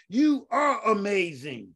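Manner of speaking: slow, emphatic proclamation; slow emphatic declaration. Real, not acted. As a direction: proclaim it slowly to the congregation. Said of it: "repeated affirmation, first take".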